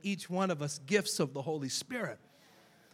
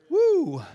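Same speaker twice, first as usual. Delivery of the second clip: high loud joyful whoop; excited whoop; 14 semitones higher, 12 dB louder than usual. Real, not acted. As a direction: let out a sudden high woo. Exclamation mid-prophecy.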